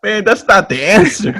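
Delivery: high-pitched mock protest; playfully exasperated objection; retold protest. Retold protest to his boss.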